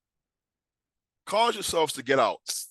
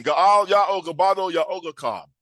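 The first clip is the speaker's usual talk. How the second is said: raised, loud, drawn-out call; leading a proclamation; 5 semitones higher, 6 dB louder than usual. Real, not acted. Preacher asking congregation to say it with him, loud rallying proclamation. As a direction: proclaim it slowly for a crowd to join in. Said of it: "Say it with me".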